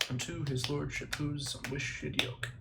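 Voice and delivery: slow, soft re-reading of unwished; quiet slow self-check; careful check. Shown as a demonstration. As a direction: slowly say unwished as unwished. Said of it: "Yeah, it's unwished".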